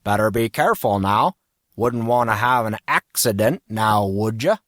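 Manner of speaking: put-on folksy Western accent with rising tags; lightly hammed-up Southern accent, teasing; silly cowboy accent; put-on cowboy drawl accent. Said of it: "Casey used that stupid accent".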